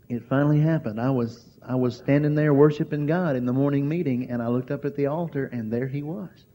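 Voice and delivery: hushed wonder, fading out; trembling voice. Retold or imitated. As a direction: friend describing a vision, trembling and fading. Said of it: "her voice was trembling".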